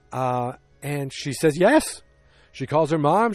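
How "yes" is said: high, loud delighted yes; mock excited acceptance. Megan accepts Don's proposal, mock excitement. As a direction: imitate a thrilled bride-to-be, pitched way up.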